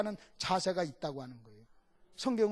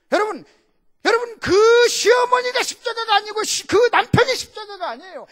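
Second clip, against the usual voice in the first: high, loud preacher's cry; full-force preaching; 11 semitones higher, 12 dB louder than usual. Acted. Pastor preaches to the congregation at full force. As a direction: hammer the point home to the congregation.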